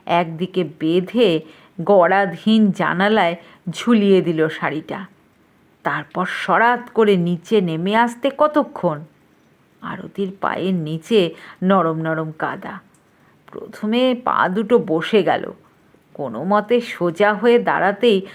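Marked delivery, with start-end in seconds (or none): none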